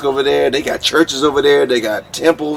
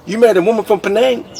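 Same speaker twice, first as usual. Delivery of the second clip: surprised officer; 7 semitones higher, faster than usual. Retold or imitated.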